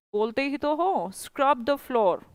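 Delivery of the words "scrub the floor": scrub the floor dragged out slowly; very slow model answer. Shown as a demonstration. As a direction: teach it word by word, slowly. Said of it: "घिसो का English होता है स्क्रब". (धीरे-धीरे, हर शब्द साफ़)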